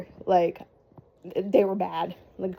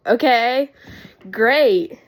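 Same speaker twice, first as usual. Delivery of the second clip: retold dismay; 3 semitones higher, 8 dB louder, much slower than usual. Reaction to her water breaking.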